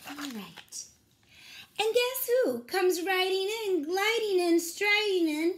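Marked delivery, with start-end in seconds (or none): 1.8-5.5 higher, louder, building excitement; excited storytelling. Acted. Reading a picture book to children, excited and high. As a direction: announce a grand entrance to the kids.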